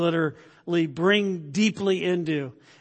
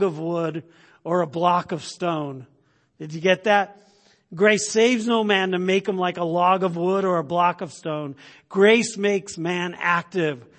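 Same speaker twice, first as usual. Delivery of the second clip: louder preaching delivery, hitting key words; emphatic sermon quotation; 2 semitones higher, 4 dB louder than usual. Acted. Preacher reading Spurgeon on grace and effort, emphatic. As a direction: drive each phrase home to the congregation.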